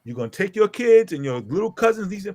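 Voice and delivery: measured, emphatic retold warning; firm ultimatum. Father ordering the girl's mother off his property, firm ultimatum. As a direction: lay down the law, phrase by phrase. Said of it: "exactly where I said it to her".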